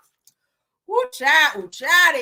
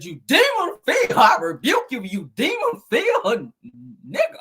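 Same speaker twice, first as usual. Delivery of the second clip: mock rebuke; 4 semitones higher, slower than usual. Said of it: "She said".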